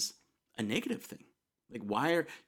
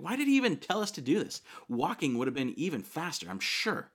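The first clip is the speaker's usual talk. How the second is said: higher, sarcastic complaint; mock grumbling disciple; 6 semitones higher than usual. Tired disciple griping about Jesus to the others, sarcastic. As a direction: whine it like a fed-up teen.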